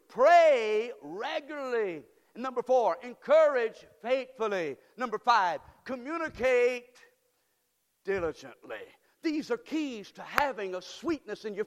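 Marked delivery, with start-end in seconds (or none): 0.1-8.8 loud preaching list. Acted. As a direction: hammer each point to the church. Preacher calling out numbered keys.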